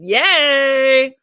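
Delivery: loud bright cheer; excited yay. Real, not acted. Host cheering a viewer's book plans, excited. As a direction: cheer for her, delighted. Cheering a chat member's news.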